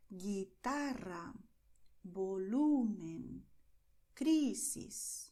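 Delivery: guitarra, volumen, crisis slowly, stretching "ta", "lu", "cri"; slow teacher demo, stressing guiTArra, voLUmen, CRIsis; second-to-last syllable stress. Shown as a demonstration. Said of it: "You stress the second to last syllable".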